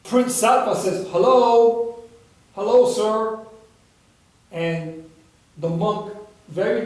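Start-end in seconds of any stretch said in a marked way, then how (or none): 1.1-3.4 calling out. Acted. Calling into the hut.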